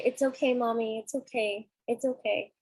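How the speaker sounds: imitating comforting children. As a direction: reassure Mommy like a little child. Young sons comforting crying mother.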